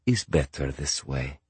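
put-on calm, soft Ukrainian-accented reassurance; calm and unbothered. A narrator's reading. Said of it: "said Boris calmly".

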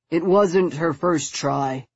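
slow, with grim determination; grim resolve. A narrator's reading. Henry correcting Stoker about her first try, grim resolve. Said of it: "Henry said with grim resolve".

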